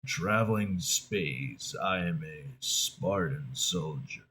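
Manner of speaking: low, quiet, monotone grizzled soldier; slow, stoic Western-style man voice; Master Chief. Acted. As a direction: keep it deep, soft and monotone. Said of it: "I'm Master Chief".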